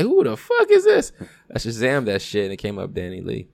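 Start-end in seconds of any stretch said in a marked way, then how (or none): 0.0-1.1 loud, high-pitched astonished exclamation; amazed outburst. Retold or imitated. Friend retelling hearing a song while high, amazed outburst. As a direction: re-enact being blown away, voice shooting up.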